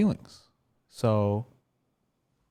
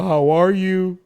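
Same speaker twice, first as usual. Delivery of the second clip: mock hurt outburst; 6 dB louder than usual. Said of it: "It's just acting".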